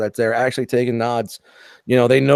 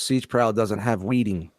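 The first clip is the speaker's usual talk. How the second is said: nerd voice; 4 semitones lower, 5 dB quieter, slower than usual. Retold or imitated. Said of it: "Chuck says in his nerd voice".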